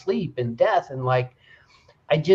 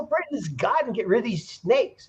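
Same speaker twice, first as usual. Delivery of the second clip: high-pitched imitated plea; high, urgent storyteller's plea; mock pleading; 8 semitones higher than usual. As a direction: call out as the desperate crowd, hammed-up. Voices people begging Moses for help.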